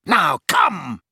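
projected, commanding call; shouted order. A narrator's reading. Snape to the Death Eater behind Harry, shouted. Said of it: "he shouted at the huge Death Eater".

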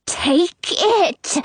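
high, forceful character voice; insistent command. A narrator's reading. Old lady presses the frightened girl.

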